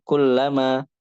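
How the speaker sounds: "kullama" said as one connected word; joined. Shown as a demonstration. Teacher showing joined spelling, "kullama" said as one word. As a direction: run "kullama" together without a break. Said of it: "lam, mimnya nyambung".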